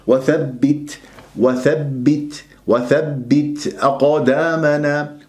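وثبت slow, light breath on the ت; measured hams. Shown as a demonstration. Teacher modelling the correct ta, slow and lightly aspirated. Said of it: "من غير مبالغة ولا قلقلة".

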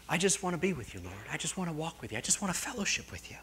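hushed, yearning prayer, acted out; intimate prayer. Voices an intimate prayer to God.

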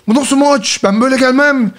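mildly hammed-up indignant protest; retold outrage. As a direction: imitate a sore loser ranting, without shouting. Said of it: "adam çıldırıyor böyle".

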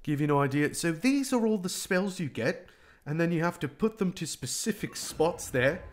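badly faked, drifting dialect of English; muddled accent. Gamer explaining the spell controls to viewers in a muddled fake accent. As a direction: put on a wobbly accent you can't place. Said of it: "I don't know what this accent is".

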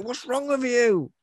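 plead, baffled no one listens; exasperated Link. Retold or imitated. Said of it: "he's like".

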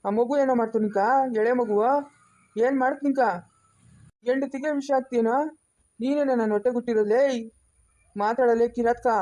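raging interrogation; angry father accusing his son of poisoning; furious accusation. Acted. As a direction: tear into him with each question.

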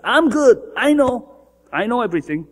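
lightly mock the smug person; mild mock arrogance; smug self-righteous voice. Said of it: "What is a self-righteous person?".

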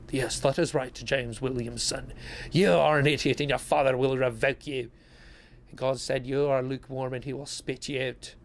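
mock Scottish rebuke; Scottish accent. Scolding James Williamson back, in a Scottish accent. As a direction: slip into a put-on Scottish accent. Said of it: "Sorry, I went all, like, Scottish".

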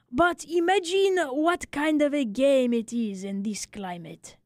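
lightly voiced barber, rueful and philosophical; a hint of a kindly old Frenchman consoling a friend.

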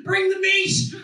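high, loud hammed-up yell; mock shout. Comic bellowing a rowdy order, mock shout. Shouted quote, stand-up act-out.

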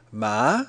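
Ma said alone as mah; syllable demo. Shown as a demonstration. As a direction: sound out Ma like calling mum. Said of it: "It sounds like".

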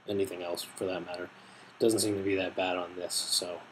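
talking around pipe tip; hookah mouthpiece at lips. Real, not acted. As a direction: lips partly blocked. Seen 0: mouthpiece touches lips while he talks through 7.3.

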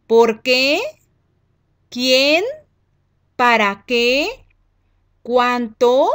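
each word lifted sharply at the end like a question; rising question tune. Shown as a demonstration. Teacher listing question words for pupils, each with a rising question tune. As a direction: ask every word, pitch climbing on the last syllable. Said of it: "la entonación en tu lectura debe cambiar".

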